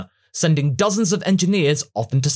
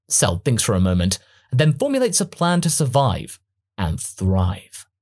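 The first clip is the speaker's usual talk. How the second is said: ordinary delivery, nothing marked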